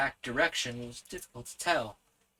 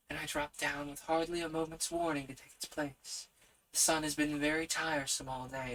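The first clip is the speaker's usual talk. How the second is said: wind spirit; 4 semitones higher, 4 dB quieter than usual. Acted.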